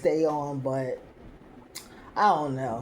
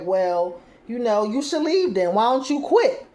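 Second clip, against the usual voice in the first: sudden outburst; 5 semitones higher, 4 dB louder than usual. Retold or imitated. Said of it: "Sean is like".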